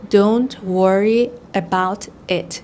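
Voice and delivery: slow, every word separate; careful full form. Shown as a demonstration. Teacher showing the unlinked form. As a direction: spell it out word by word. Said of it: "جملهٔ اینطوریه که".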